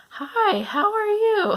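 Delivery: cracking up high mid-greeting; a puberty voice crack, squeaky and loud. Retold or imitated. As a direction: let the voice break upward on the hello. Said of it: "I definitely still have a cracky voice".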